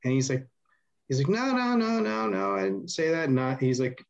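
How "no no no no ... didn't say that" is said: high panicked imitated Chad; mock frantic denial.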